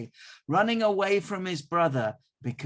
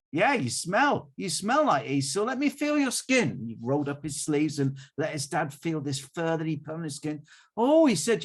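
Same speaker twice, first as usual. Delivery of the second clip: put-on old father Isaac; 4 semitones higher, 5 dB louder than usual. Blind father Isaac voiced.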